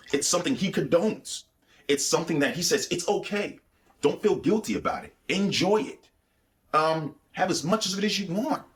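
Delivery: high, coaxing mock-tempter voice; mock devil's voice. Holy Spirit mimicking the devil's permission, high coaxing. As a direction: coax like the devil saying it's fine.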